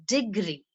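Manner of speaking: degree with the stress on GREE. Shown as a demonstration. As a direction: put the weight on GREE in degree. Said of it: "Stress is here on degree".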